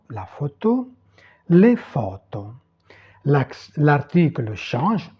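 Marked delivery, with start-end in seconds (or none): 1.5-2.5 "les photos" as Italian, stressed long first o; Italian pronunciation demo. Shown as a demonstration. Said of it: "prononcer les mots". (prononcer « les photos » distinctement à l'italienne)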